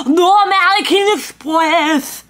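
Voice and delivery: put-on loud, slow, accented shout; barked refusal. Barista shouting no American Express at the customer, loud accented shout. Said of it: "I try and tap".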